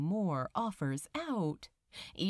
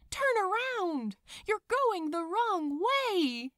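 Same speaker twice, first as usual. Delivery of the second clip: high, urgent call across a distance; desperate plea to a departing friend; calling after him; 9 semitones higher, 4 dB louder than usual. A narrator's reading. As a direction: call out after someone walking away. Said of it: "Crowley called after him".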